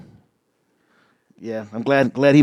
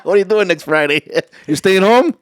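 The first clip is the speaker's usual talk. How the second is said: laughing tease, a bit louder; teasing laugh; 3 semitones higher, 6 dB louder than usual. Real, not acted. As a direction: rib him while laughing. Teasing friend while laughing.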